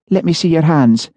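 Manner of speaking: brisk, businesslike fortune-teller. A narrator's reading.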